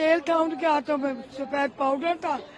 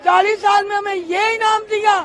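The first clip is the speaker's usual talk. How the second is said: raised voice, pressing the grievance hard; real angry outcry; 3 semitones higher, 7 dB louder than usual. Real, not acted. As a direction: demand justice at full voice, outraged. Protesting the sentence as unjust.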